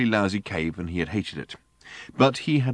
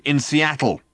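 high punchline to a rant; indignant clincher; 7 semitones higher, 3 dB louder, slower than usual. A narrator's reading. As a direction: cap the tirade on a raised pitch. Driver caps his tirade.

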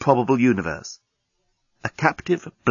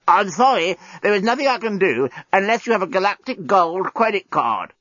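high, strangled robot voice; simulated strangled voice; 7 semitones higher than usual. A narrator's reading. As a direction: speak as a robot being throttled. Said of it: "in a simulated strangled voice".

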